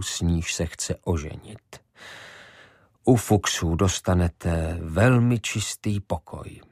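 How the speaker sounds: put-on calm old man politely closing the door on him; old innkeeper. Josef Šafar refusing Ivo lodging, lightly voiced low and slow.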